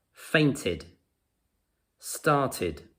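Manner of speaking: "Fainted, started" each ending in an "id" sound. Shown as a demonstration. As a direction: say "Fainted, started" separately, with "id" after the t. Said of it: "They also make the id".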